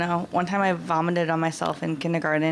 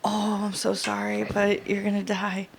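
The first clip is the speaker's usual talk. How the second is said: slow, soft fake pity; sorry, but not really; mock sympathy; 2 semitones higher, 3 dB quieter than usual.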